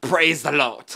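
put-on Jamaican accent, preaching cadence, added t endings. Retelling a jamaican preacher who added t's to words: imitating jamaican preacher accent. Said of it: "And the preacher was like Jamaican and everything".

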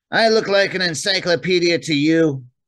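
very high, scoffing, snorting reply. Narrator voicing a woman answering a man's question, snorting. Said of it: "she snorted".

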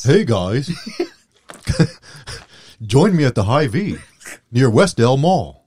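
dopey, goofy, dim-witted put-on voice. Showing the other speaker the voice for a hy-vee plug: dopey voice. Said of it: "It's the dopey voice".

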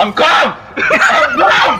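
high-pitched screaming. Retelling a player in game chat told to calm down: imitating someone screaming. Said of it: "he's screaming, man, down the mic".

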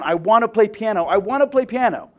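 put-on high, rising, full-lunged screaming child's tantrum. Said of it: "as loud as she can".

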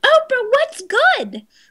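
mock yelling, high-pitched and loud. Recalling watching an interview on television, retelling screaming at the TV. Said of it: "I'm screaming at the television going".

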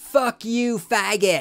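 high, loud, abusive scream. The speaker recounts boys hanging out a passing truck's window at him, retelling a scream. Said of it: "looked at me and screamed".

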